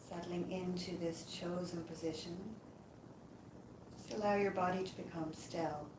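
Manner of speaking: calm, unhurried meditation voice with long pauses; guided yoga nidra. Acted. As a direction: guide them gently into rest, leaving space between phrases. Leads a yoga nidra relaxation.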